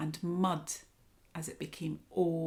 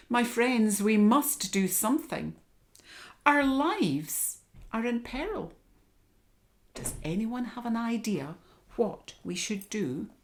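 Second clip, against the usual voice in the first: loud, higher lion rallying friends; lion's voice; 5 semitones higher, 4 dB louder than usual. Acted. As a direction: call the animals together as the lion.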